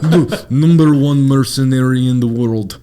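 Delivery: laughing through a hammed-up villain boast; a hint of a cocky mercenary; mock boast. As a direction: puff it up, laughing.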